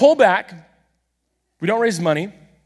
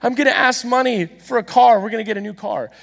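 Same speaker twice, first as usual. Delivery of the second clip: proud show and tell; 5 semitones higher than usual. Retold or imitated. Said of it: "show and tell".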